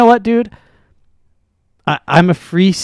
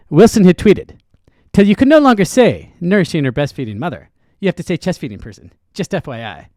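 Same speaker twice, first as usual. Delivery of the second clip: fast, louder pundit reading a quoted tweet; Ben Shapiro impression; 2 semitones higher, 3 dB louder than usual. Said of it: "How about you do it in Ben Shapiro's voice".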